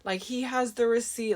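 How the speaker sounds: imitating crying customer. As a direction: lightly play the upset shopper pleading. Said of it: "She starts crying".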